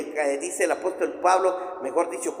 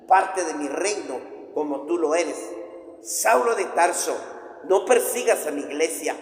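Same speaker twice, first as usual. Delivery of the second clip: voice of Jesus. Acted. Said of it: "yo pienso que le habrá dicho".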